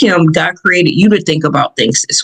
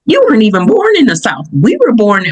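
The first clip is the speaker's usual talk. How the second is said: a higher, quicker mock of a teasing aunt; 5 semitones higher than usual. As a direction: tease like the aunt, pitched up. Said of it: "because she said".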